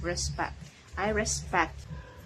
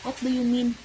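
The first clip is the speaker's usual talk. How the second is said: What do you mean? higher and louder, hitting you; emphatic question; 5 semitones higher, 5 dB louder than usual. Shown as a demonstration. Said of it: "models question with stress".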